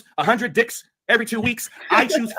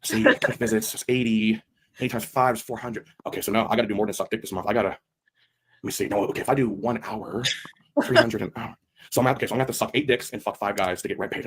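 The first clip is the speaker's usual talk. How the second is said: mock sex worker counting; 11 semitones lower, 4 dB quieter than usual. Skit voicing the woman counting.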